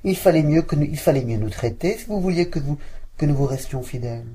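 a hint of a plucky maid; servant answering. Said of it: "la servante apparut".

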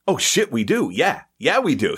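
suddenly thrilled to go meet him; excited realization. Retold or imitated. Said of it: "I was like".

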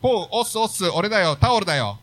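breezy wrestler greeting, lightly acted; playful impression of an easygoing character; light, casual wrestler. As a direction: read it as a casual, jokey wrestler. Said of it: "そんな喋り方なんですか？".

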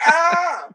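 short high-pitched "ah" cry; mock cry. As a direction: let out a high mock wail. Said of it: "She was like".

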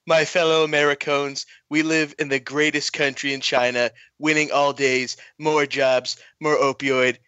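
lightly voiced Trump speech; a hint of Trump at a podium; mild mock presidential address; Trump impression. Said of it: "I'll give it a shot".

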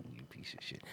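breathy mock-threatening whisper; whispered insult. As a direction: hiss it low like a movie villain. Mock threat after laughing.

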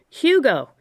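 a half-shouted call over the room. Acted. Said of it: "the man half shouted".

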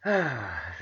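long breathy sigh; weary sigh. Real, not acted. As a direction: let out a heavy sigh. Weary of crazy times.

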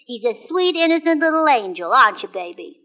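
put-on soft baby talk to the duck; cooing to a pet. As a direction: coo at her little duck like a baby.

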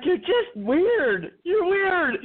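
high, laughing through it; teasing, high and slow. Retold or imitated. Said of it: "he's like".

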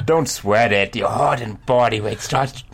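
put-on reader voice at an even pitch; first try at voicing the dude, later dropped; wrong character voice. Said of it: "That's wrong voice for this dude".

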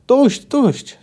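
high, loud plea to stop; pleading cry. A narrator's reading. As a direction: cry out under blows. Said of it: "zawtórował zwinięty w kłębek Kahir".

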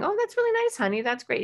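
bland high "that's nice, honey"; flat polite praise. Shown as a demonstration. Parent giving a quick dismissive compliment, breezy. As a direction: brush off the kid's news politely. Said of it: "Instead of going".

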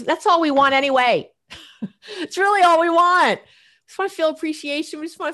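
real laughing emphasis. Real, not acted. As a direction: laugh as you drive it home. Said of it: "laughing emphatic point".

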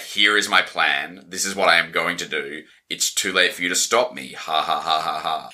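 deep, slow villain monologue; mock evil laugh at the end; slow theatrical villain menace. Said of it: "a classic villain monologue".

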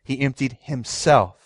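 slow, with "himself" set apart and weighted; slow down and lean on "himself"; stress on HIMSELF. Shown as a demonstration. Preacher showing the congregation the verse's key word, stress on "himself". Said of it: "by emphasizing that word himself".

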